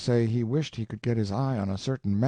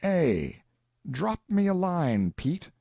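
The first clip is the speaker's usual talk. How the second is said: dictating; 9 semitones higher, much slower than usual. Acted. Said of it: "Word it like this".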